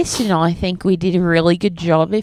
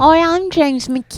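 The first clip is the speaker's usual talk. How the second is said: higher, slow hammed-up ad voice; bad James McCann impression; 8 semitones higher, slower than usual. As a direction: drag the name out like an ad. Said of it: "bad of an impression".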